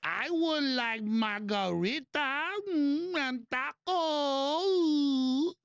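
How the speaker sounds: very slow, drawn-out fake Hispanic accent; mock Hispanic accent. Host mocking relatives ordering at restaurant, fake Hispanic accent. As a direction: stretch every word in a hammed-up Hispanic accent. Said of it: "don't even have a Hispanic accent".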